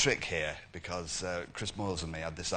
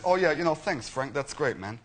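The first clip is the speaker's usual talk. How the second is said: Lennox Lewis voice. Retold or imitated. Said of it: "I should do the voice of Lennox".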